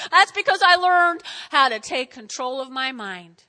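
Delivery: loud start settling into measured emphasis; emphatic restatement. Acted. Patient repeating the answer to the doctor, emphatic.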